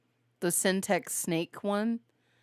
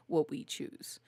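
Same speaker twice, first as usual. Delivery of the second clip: choking on water; 5 semitones lower, 9 dB quieter than usual. Real, not acted. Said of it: "it went down the wrong pipe".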